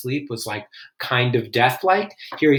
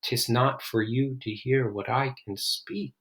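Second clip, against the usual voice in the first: hushed and measured; 6 dB quieter than usual. Acted. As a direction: drop from the yelling to a grave hush. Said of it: "you really hear how this line slows down".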